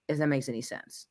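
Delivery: whispered aside. Real, not acted. Explaining directing tricks to a friend, whispered. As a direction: drop to a whisper. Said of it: "unvoiced aside".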